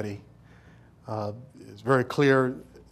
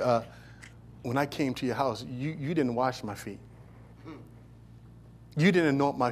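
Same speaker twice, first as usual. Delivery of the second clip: gentle Jesus. Retold or imitated. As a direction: speak gently, like a kind teacher. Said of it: "He says".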